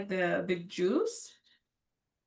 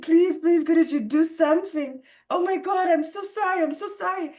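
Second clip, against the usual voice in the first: higher, louder pleading, near tears; desperate begging; 6 semitones higher, 4 dB louder than usual. Retold or imitated. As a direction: beg for forgiveness in a raised, desperate voice. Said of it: "I was begging him".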